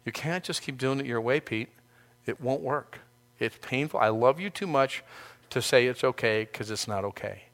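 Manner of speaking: lightly voiced loving Jesus, quiet and tender; softly, as if telling a friend hard truth; tender rebuke. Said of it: "where Peter was rebuked by Jesus".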